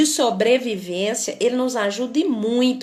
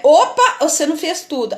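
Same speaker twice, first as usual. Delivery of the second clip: startled warning; 4 semitones higher, 5 dB louder than usual. Retold or imitated. Survival instinct warning again.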